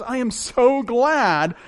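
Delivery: gratefully exultant praise; joyful praise. Retold or imitated. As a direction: sing out thanks like a hymn. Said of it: "the lyrics to a song where he says".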